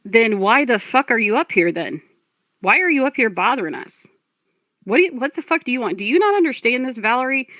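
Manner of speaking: real exasperation, pitch climbing; heated, incredulous challenge; exasperated confrontation. Real, not acted. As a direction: demand answers, fed up and rising in pitch. Confronts Valerie during the rage clip.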